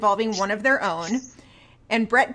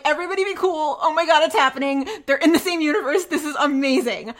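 high, excited self-quote; mildly frantic excitement, pitched up; freaking out; 4 semitones higher than usual. Retold or imitated. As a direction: act out a giddy freak-out. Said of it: "I'm freaking out. I'm just like".

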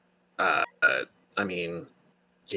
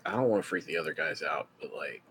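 quiet, low confiding voice; hushed, lower, as an aside to a friend; 3 semitones lower, 5 dB quieter than usual. Acted. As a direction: drop your voice so the others don't overhear. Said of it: "he kinda lowers his voice".

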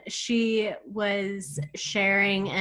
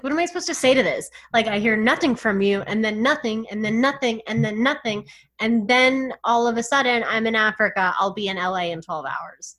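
fast exasperated quote; 2 semitones higher, 4 dB louder than usual. Retold or imitated. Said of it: "She's like".

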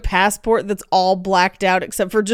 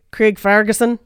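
the name with a Scottish twist; Scottish accent. Acted. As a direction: say the name as a Scot would. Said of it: "Scottish touchstone for Scottish accents".

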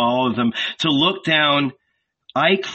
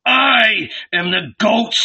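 murmured; 8 semitones higher, 3 dB louder than usual. A narrator's reading. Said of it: "he murmured".

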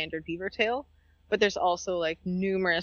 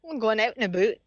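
exaggerated Canadian "oot" vowels; badly faked Canadian accent, played for laughs; failed Canadian accent. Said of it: "I can't Canadian".

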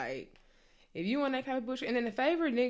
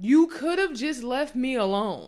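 louder, slow and declared; slow, louder slogan; banner slogan; 5 semitones higher, 7 dB louder, slower than usual. Acted. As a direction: proclaim it like a motto. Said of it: "if I had to make a banner".

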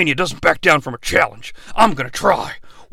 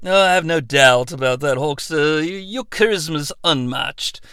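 much softer, quick soothing explanation; Christopher Nolan; 6 dB quieter than usual. Acted. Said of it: "Christopher Nolan".

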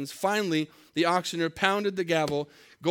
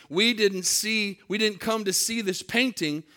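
angry shout; 3 semitones higher, 3 dB louder than usual. Retold or imitated. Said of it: "Another voice shouted angrily".

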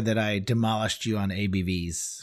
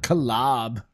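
put-on Valley Girl voice. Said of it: "it's Valley Girl speak".

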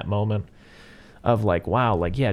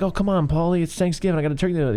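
lightly acted, higher-pitched woman's plea; imitating pleading Adrian; 5 semitones higher, faster than usual. Quoting a woman appealing to Paulie at Thanksgiving, mock pleading. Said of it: "she's like".

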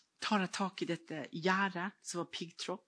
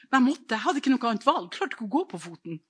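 louder and higher, insisting; emphatic outburst; 4 semitones higher, 5 dB louder, faster than usual. Real, not acted. Preacher insisting she had no other choice, loud. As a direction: push it out with force.

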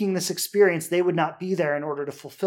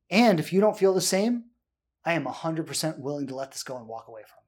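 softer, open and honest confession; sincere vulnerability; 3 semitones lower, 4 dB quieter than usual. Retold or imitated. Coach showing a vulnerable partner, softly sincere. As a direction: admit your feelings calmly, unguarded. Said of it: "Vulnerability is".

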